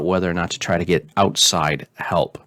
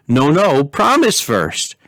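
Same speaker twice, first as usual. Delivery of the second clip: put-on high, slow childish insistence; pleading princess; 5 semitones higher, slower than usual. Princess coaxing her father for a promise. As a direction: draw it out like a wheedling child.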